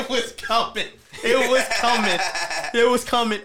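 laughing. Real, not acted. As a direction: repeat it through giggles. Guest cracking up over a joke.

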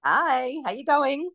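a bit hoarse and croaky; croaky from being sick. Real, not acted. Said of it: "excuse my slightly croaky voice".

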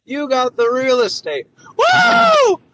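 mock Biden yelling at the crowd; Joe Biden impression. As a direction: ham up a rowdy Biden rally bit. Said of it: "shitty Joe Biden impression".

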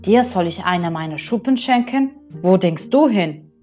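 a touch of haughty disdain; proud rainbow fish refusing the little fish; scornful. Acted. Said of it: "rief der Regenbogenfisch".

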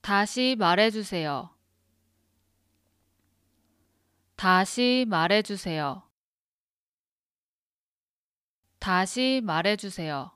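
다시 말해주세요 repeated clearly, each take pausing; careful repetition. Shown as a demonstration. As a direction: say 다시 말해주세요 carefully for the learner to copy. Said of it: "I'm gonna repeat it three times. Listen carefully".

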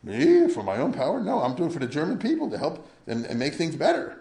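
hint of a pompous tyrant; imitating Hitler. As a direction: lightly parody a self-righteous dictator. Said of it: "Hitler also is a classic example".

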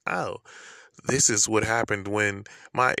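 lightly imitated robotic narrator, slowed down; a hint of a text-to-speech reel voice, drawn out; computer voice. Vlogger mocking the AI voice on reels, lightly robotic. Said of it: "it's like a computer voice".

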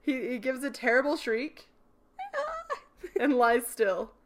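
game master setting the scene; story narration. Acted. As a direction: read the spooky scene to the players.

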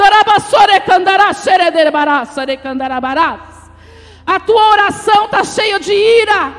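high, loud prophetic proclamation; full-force preaching. Real, not acted. Preacher warning the congregation about the nation, full-force preaching. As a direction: drive each clause out at full volume.

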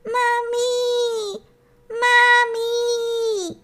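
high, tearful little-hare cry for mummy; nearly crying. Acted. Little hare calling for his mother, nearly crying. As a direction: wail it like a lost child about to sob. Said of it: "a zavolal skoro plačky".

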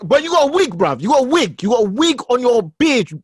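loud teasing callout; mock shout. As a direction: call him out loudly. Mock confronting beard wig wearer.

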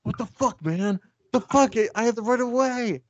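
high-pitched, outraged South Philly driver; South Philly accent. Retold or imitated. Batman about to fight a civilian, mock South Philly accent. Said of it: "he's from, like, South Philly".

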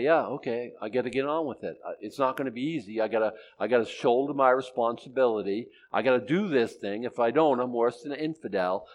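resigned man. Retold or imitated. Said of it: "the smart man will say".

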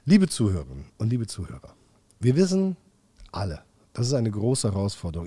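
a hint of a solemn politician; lightly voiced solemn speech to listeners; mock formal speech. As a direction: address the listeners like a statesman.

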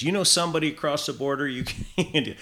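mock American border guard; terrible American accent. Canadian hunter retelling the border guard's favour, bad American accent. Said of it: "I'm putting on this terrible American accent".

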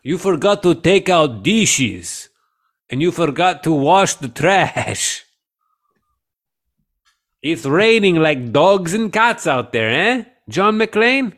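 put-on high, slow nagging old lady; old woman voice. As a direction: whine the chores like a muddled granny. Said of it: "like an old woman voice".

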